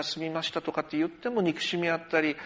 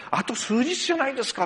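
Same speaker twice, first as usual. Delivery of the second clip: 笑いながら; 8 semitones higher than usual. Retold or imitated. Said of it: "って何回も言われて".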